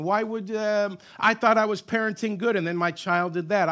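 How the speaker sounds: high, loud pleading at God; frustrated believer shouting at God; exasperated complaint. Retold or imitated. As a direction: cry out why in frustration.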